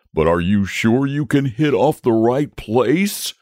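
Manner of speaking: anxious. A narrator's reading. Dragon doubts the knight's aim, mildly anxious. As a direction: seek reassurance, pitch lifted. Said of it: "asked the dragon anxiously".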